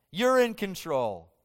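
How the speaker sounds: loud and slow, declaring sovereign Jehovah Adonai; proclaiming praise. Acted. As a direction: proclaim it like a herald before the king. Preacher voices David proclaiming God.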